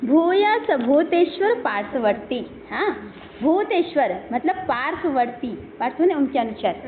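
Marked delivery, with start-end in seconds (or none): 0.1-2.7 slow, measured Sanskrit chant; verse recitation. Shown as a demonstration. Teacher reciting the verse line to students, slow chant. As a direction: lay out each syllable of the verse evenly. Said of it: "Sanskrit verse read in class".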